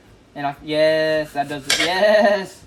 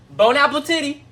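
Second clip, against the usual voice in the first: mock French toast; 9 semitones higher, 7 dB louder than usual. Mock fancy toast over drink.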